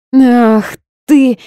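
high, loud indignant cry; furious outcry. A narrator's reading. Heroine swings a hanger at the boss, furious. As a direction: lash out at him.

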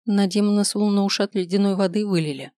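plain reading voice

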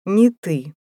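relishing every word; a warder gloating over a prisoner. A narrator's reading. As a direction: savour it, smug and pleased. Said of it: "с наслаждением отозвался надзиратель".

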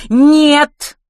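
very loud, high-pitched denial; indignant exclamation. Acted. Kitty denies Gloria's claim, indignant shout. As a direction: cry out in protest. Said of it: "возмущённо воскликнула Китти".

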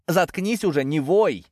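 shout. A narrator's reading. Narrator yells at the howling snake, high and loud. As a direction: yell at him to stop howling. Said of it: "крикнул я ему".

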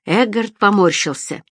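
ordinary delivery

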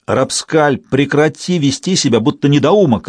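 barking king. Acted. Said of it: "рявкнул король Рейн".

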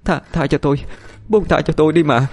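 high-pitched, stammered begging; frightened muttered plea. A narrator's reading. Terrified wife to the haunting voices, pleading mutter. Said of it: "Hà ôm đầu nói lẩm nhẩm".

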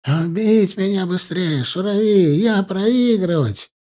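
high, slow, strained broken Russian; desperate captive. A narrator's reading. Captive Mukhtar begging the soldier to finish him. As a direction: beg for a quick death.

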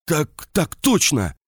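half-strangled wheeze, slow and high; hoarse wheeze from a choked throat. A narrator's reading. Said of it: "просипел полузадушенный Ланге".

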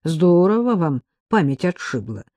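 usual speaking voice

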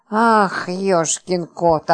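slow, drawn-out astonished exclamation; gasping surprise. Acted. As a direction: gasp it out in slow amazement. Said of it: "ахнула Глафира". (медленно, ахнув от изумления)

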